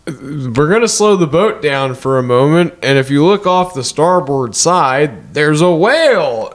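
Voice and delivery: measured imitation of a ferry announcement; slow down like a boat's announcer, drawing out the end. Ferry crew telling passengers about a whale, measured announcement. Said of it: "they go".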